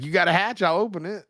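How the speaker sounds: creepy high serial killer voice; slasher killer. Retold or imitated. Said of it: "He's like".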